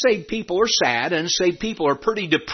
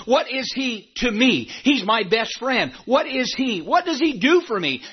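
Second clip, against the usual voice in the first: building, higher-pitched sermon cadence; fervent preaching; 5 semitones higher than usual. Real, not acted. Preacher testifying what God is to him, fervent preaching. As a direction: climb through each question and answer. Preaches in rising question and answer.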